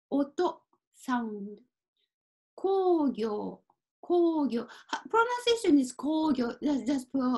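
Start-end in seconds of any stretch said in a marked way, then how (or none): 5.9-6.5 工業 as koo-gyoo, both o sounds drawn out; prolonged vowels. Shown as a demonstration. Teacher showing how it is pronounced, 工業 with prolonged o vowels. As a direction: stretch the long o in each half of 工業, no separate u. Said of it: "prolong, like prolong".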